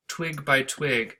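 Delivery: "twig by twig" slowly, each word weighted; slow scansion. Shown as a demonstration. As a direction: space out "twig by twig". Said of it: "neither of these lines are iambic".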